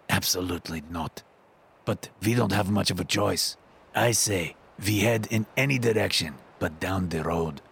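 lightly voiced older Russian man, serious; Lev, Russian accent. Lev warns Max about the road, in a light Russian accent.

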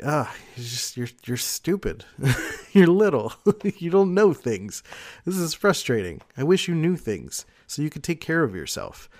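playful teasing through laughter, pitch lifting; mock exasperated parent. Parent making fun of their clueless kids, mock frustration. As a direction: poke fun at a little kid, half laughing. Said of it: "you make fun of your kids".

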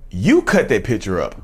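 slow, deliberate mock accusation; imitating a stunned accuser, unhurried; wide-eyed accusation. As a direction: act out an accusation, drawing the words out slowly. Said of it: "her eyes got wide and she looked at me".

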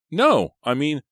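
high, loud flustered no; panicked cry from a captive girl; panicked protest. A narrator's reading. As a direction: stumble over it in fear. Della panics, captor grabs her.

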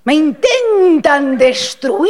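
slow, high theatrical lament; dramatic wail. Pretend. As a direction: cry out like a tragic heroine. (lamento dramático)

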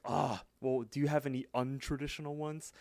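mildly exasperated question, lightly acted; sigh, then ask with a touch of exasperation; retold frustration. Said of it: "Mordecai gets all frustrated".

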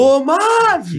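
high, drawn-out name call; mock furious call. Friend imitates an angry wife calling her husband, high mock holler. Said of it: "Já tava na fúria".

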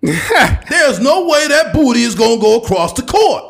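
loud, high ranting sports pundit; Stephen A. Smith. Retold or imitated. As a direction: rant it hot-take style, shouting. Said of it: "Stephen A. Smith impersonations".

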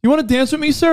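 high, slow simple voice; slow-sounding guy voice. Retold or imitated. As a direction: sound slow but sly. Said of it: "he sounds slow".

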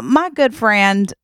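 slow, light Southern drawl; Southern accent. Acted. Covering for a friend's accent, slow Southern drawl. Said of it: "his mother has a Southern accent".

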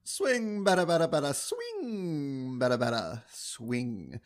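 singsong bada bada chatter, fading; infield baseball chatter. Intro bit, infield baseball chatter.

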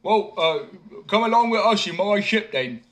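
high, loud call; simpleton inviting. A narrator's reading. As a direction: invite him aboard. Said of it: "simpleton invites".

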